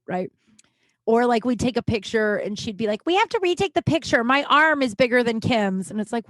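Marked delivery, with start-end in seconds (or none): 3.1-5.9 high-pitched mimicked fussing; mock her fretting over the photo; complaining girlfriend. Girlfriend demanding a photo retake, mock complaining.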